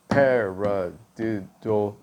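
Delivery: slowly stretched paradiddle; slow demo word. Shown as a demonstration. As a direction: draw the word out while showing the phrase. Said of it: "if you're doing that phrase".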